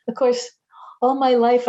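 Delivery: ordinary talk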